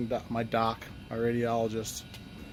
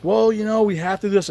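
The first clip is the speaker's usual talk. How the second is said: mocking high-pitched staff; 7 semitones higher, 6 dB louder than usual. Staff insisting during the standoff.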